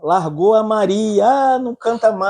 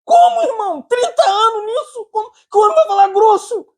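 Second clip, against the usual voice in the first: incredulous outcry. Real, not acted. Preacher protesting to the leader, high disbelieving cry.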